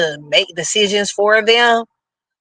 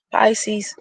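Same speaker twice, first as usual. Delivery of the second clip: whispering; 2 semitones higher, 4 dB quieter than usual. Real, not acted. Sneaky aside to the sign.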